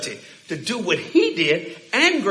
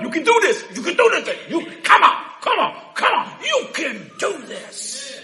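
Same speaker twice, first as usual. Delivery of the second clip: raised, urging coach-like voice; coaxing encouragement; 6 semitones higher than usual. Retold or imitated. Preacher acting Jesus interrupting to urge him on, coaxing. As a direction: coax them along, slowing at the end.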